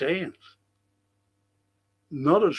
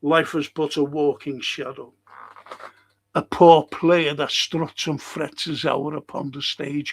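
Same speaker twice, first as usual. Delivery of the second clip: dramatic recitation. Acted. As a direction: deliver it like Macbeth mourning. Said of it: "quoting again".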